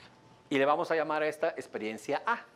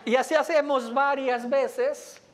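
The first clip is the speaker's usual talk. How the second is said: laughing through the words, louder and higher; amused laughter, slower at the end; 8 semitones higher, 6 dB louder, slower than usual. Real, not acted. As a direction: breaks into real laughter while explaining. Laughing while demonstrating calibration.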